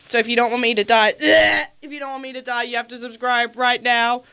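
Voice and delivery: hammed-up sobbing plea, quick; mock crying plea. Host begs listeners to subscribe, mock crying. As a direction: whimper like you're dying, jokingly.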